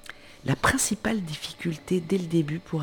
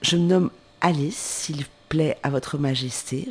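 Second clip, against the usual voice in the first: polite reply. Acted. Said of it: "répondit très poliment".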